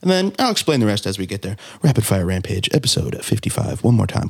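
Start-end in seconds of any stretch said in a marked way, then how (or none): 1.8-4.3 fighting game announcer. Acted. Hosts announce the segment title.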